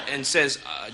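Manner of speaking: normal talking voice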